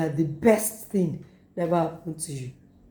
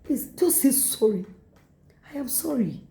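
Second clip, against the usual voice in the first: laughing plea; 6 semitones higher than usual. Retold or imitated. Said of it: "You say".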